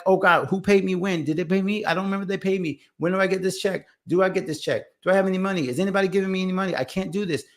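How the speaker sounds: fretting over unpaid checks; stressed panic. Retold or imitated. Stressed self quoted about money.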